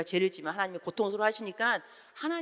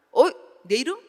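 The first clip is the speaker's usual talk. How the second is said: surprised turn; 7 semitones higher, 9 dB louder than usual. Retold or imitated. Hearing own name called.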